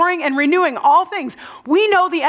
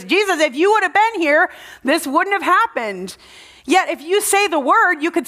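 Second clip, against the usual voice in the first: higher, urgent plea to Jesus; upset Martha; 5 semitones higher than usual. Retold or imitated. Martha telling Jesus, upset and pleading higher. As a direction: press him like a grieving sister. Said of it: "he sees that Martha is upset".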